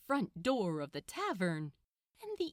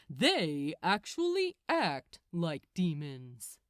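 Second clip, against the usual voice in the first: a hint of a patient archangel, a bit louder; lightly voiced Gabriel; 3 semitones lower, 4 dB louder than usual. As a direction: explain it like a superior lecturing. Gabriel explains.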